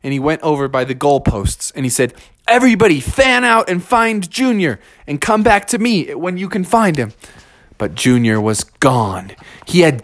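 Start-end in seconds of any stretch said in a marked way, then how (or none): 2.5-7.1 higher, urgent instructions; firm, raised-pitch orders; commanding father bear. Acted. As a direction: direct a search party. Father gives search orders to family.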